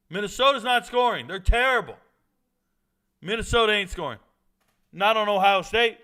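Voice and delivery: high, loud, incredulous insistence; worked-up dismissal; emphatic insistence. Real, not acted. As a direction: drive the point home loudly. Insists the team will not score.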